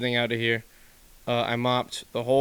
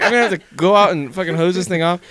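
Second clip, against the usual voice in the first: mock exasperation; 6 semitones higher, 7 dB louder than usual. Retold reaction to ruined carpet.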